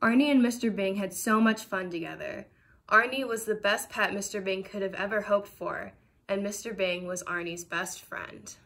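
put-on gentle storybook narration for kids; reading to children. A narrator's reading. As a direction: read it like a bedtime picture book. Reads picture book aloud.

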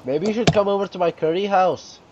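mock part-Indian accent; put-on Indian accent. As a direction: invite them in a rough Indian accent. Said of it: "Look in my other accent".

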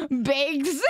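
bags said as baygs; teasing regional baygs for bags; accented BAGS. Shown as a demonstration. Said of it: "you say bags".

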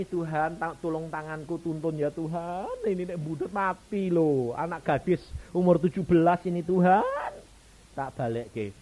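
loud, high, pleading cry to God; frantic prayer. Retold or imitated. Praying aloud during the surgery, loud pleading. Preacher voicing his own panicked prayer.

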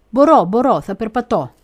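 put-on high, loud eager little girl insisting she can; eager child. Little girl begging the elder to take her, eager and loud. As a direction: cry out keen not to be left behind. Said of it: "απαντούσα".

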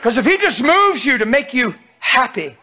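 full-force preacher cry; preaching. Acted. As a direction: preach it hard to the congregation.

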